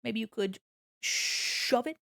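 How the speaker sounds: mock polite, then snide; imagined sassy comeback. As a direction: fake courtesy turning into a jab. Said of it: "I didn't say that".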